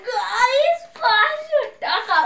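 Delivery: high, loud and slow prize announcement; excited. Real, not acted. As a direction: draw out the win, thrilled. Announcing a big prize win.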